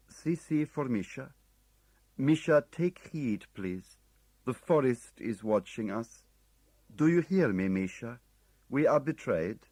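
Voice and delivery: measured, urgent calm of a man in danger. A narrator's reading. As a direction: Chechev warning Misha, slow forced calm. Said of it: "The calm, if anything, more pronounced. The pace slower".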